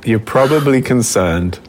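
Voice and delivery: badly faked South African accent with a stray Russian tinge; mock South African accent. Co-host feigning concern to Robin, in a mock South African accent. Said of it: "this South African accent".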